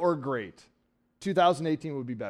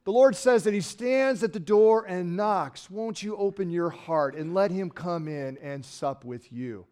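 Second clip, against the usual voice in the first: higher, slow mock pleading preacher; 4 semitones higher, slower than usual. Preacher mimicking a sentimental altar-call plea, slow. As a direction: coax them to open their hearts. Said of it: "they say something like".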